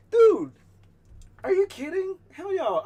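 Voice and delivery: high, loud, excited shout; over-the-top excited yell; hyped shout. Real, not acted. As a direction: yell it like a thrilled fan. Hyped about buying Dolly products.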